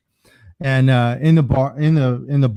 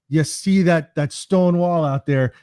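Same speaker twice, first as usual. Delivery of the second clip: lightly attempted Scottish accent, pitched up a touch; bad Scottish accent; 3 semitones higher, slower than usual. Old man pointing out the pub window, bad Scottish accent. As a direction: draw it out in a loose Scottish accent. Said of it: "It's supposed to be a Scottish accent".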